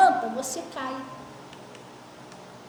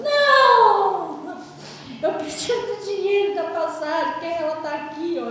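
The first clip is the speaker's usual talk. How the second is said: insistent refusal; 5 dB louder, slower than usual. Retold or imitated. Woman rejects prayer, demands money.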